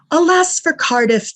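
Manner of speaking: slow, loud, high mock lament; scoffing. Rival paper scoffing at Cardiff, mock lament. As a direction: sneer at Cardiff's hopes, drawn out. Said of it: "the paper scoffed".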